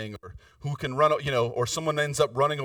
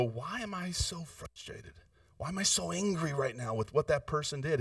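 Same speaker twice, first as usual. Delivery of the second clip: quiet self-questioning; 7 dB quieter than usual. Retold or imitated.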